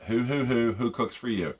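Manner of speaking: owl hoot imitation. Shown as a demonstration. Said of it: "So as you're doing it".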